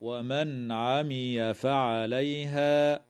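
slow chanted verse; Quranic recitation. Shown as a demonstration. Tajweed teacher reciting for students, slow chant. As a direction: intone the verse slowly. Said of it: "قوله تعالى".

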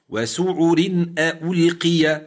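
وسعر ألقي recited, ألقي drawn out slowly; recitation demo. Shown as a demonstration. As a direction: model reading with a light ر. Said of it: "مكسورة".

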